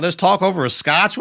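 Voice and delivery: put-on British accent, lifted in pitch. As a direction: imitate a British gent's invitation. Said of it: "some shit with the British accent".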